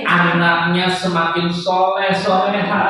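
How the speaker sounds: slow, measured blessing for the crowd; host leads parents' prayer, slow and solemn. Acted. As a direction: pace each blessing for the amen.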